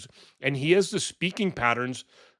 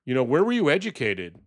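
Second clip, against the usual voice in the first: imitating Trump, higher and gushing; imitating Trump fawning over the Liberian president, higher; mock Trump; 4 semitones higher than usual. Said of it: "and he's just going".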